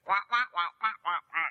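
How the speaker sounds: wah wah like a cartoon teacher; muffled wah wah talk. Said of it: "in the teacher voice going".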